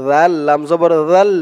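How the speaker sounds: "জাল" with a very soft dh, tongue tip at the upper teeth; soft dhal. Shown as a demonstration. Teacher demonstrates the letter, soft dh in "জাল". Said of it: "জালের উচ্চারণটা একদম নরম হবে".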